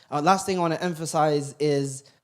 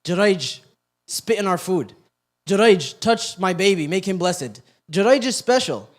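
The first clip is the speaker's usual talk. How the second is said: higher, louder mocking chant of the crowd; mock crowd taunt; 3 semitones higher, 5 dB louder than usual. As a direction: sneer it like the jeering crowd.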